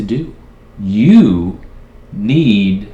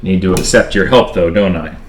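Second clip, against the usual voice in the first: bitter loud; 2 semitones lower, 7 dB louder than usual. Acted. Man bitter at AI.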